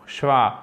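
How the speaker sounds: SCHWA with its final vowel left trailing; drawn-out final sound. Shown as a demonstration. Teacher shows learners how schwa is said, drawn-out final sound. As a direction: let the end of Schwa drag on. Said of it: "laissez traîner, euh, le son final".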